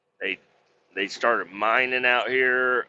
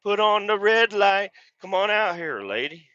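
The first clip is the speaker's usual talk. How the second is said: high, sing-out call to a coworker; retold coaxing; 11 semitones higher, 3 dB louder than usual. Driver inviting the scale operator out, high coaxing voice. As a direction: pitch it way up, retelling the invitation. Retells calling Marie out for break.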